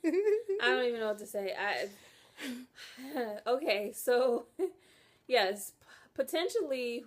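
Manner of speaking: real tears breaking through the words; choked up. Real, not acted. The wife reacting to their embryo news, crying. Overwhelmed hearing about possible twins.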